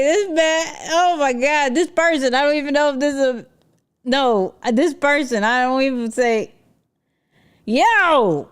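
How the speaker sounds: loud, high, laughing rant; laughing mock outrage. Real, not acted. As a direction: roast him while cracking up.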